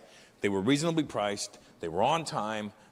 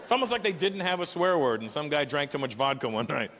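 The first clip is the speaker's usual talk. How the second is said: ordinary talk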